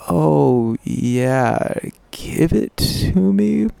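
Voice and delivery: drawn-out, lilting come-on; alluring invitation. Retold or imitated. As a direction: lightly imitate a slow, alluring invitation. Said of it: "and so alluring".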